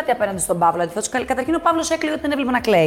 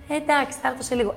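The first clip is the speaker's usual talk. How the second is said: retold polite brush-off, lightly raised pitch; mild, courteous quoted reply; 3 semitones higher than usual. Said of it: "Ευγενικά".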